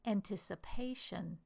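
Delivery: "Anticipation" with three short syllables, then long PA; fourth-syllable stress. Shown as a demonstration. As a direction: hold the PA in "Anticipation", shorten the rest. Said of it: "are the unstressed syllable before we get to the stressed".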